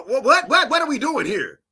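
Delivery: high, loud what-what-what; exasperated disbelief. Real, not acted. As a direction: throw your hands up at the nonsense. Exasperated reaction.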